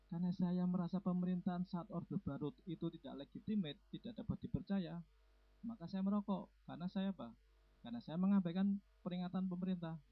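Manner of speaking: high, level recitation of a political stance; mock declaration. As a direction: imitate a friend solemnly declaring his principles, pitched high. Friend's acted political declaration.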